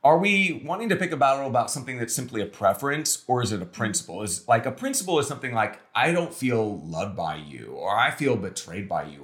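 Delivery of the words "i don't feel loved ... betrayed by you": lower-pitched, understated hurt; acted hurt feelings. Spouse voicing a deeper grievance, understated hurt.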